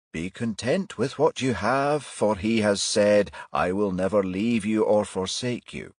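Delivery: slow, sanctimonious scripture quoting; pious preacher voice. Acted. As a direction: intone it with hammed-up reverence. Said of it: "adopted a mock pious voice".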